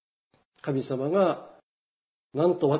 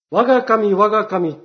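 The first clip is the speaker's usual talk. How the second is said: a touch louder; mild mock shout to heaven; retold cry out; 4 semitones higher, 5 dB louder than usual. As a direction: cry out to God, half-voiced. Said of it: "と叫ぶはずはありません".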